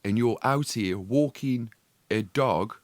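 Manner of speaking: slow, deliberate, word by word; drawn-out retort with pauses; retold incredulous retort. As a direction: spell out the absurdity in slow chunks. Retold retort, spelled out slowly.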